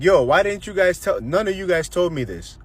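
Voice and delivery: mildly mad, aggrieved retelling; retold mad. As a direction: act out protesting to family, exasperated. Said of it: "So I'm just mad".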